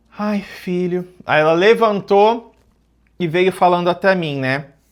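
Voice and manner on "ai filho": said through a heavy sigh on a long breath out. Retelling the mother's words after she sighed: imitating a sigh. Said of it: "ela suspirou".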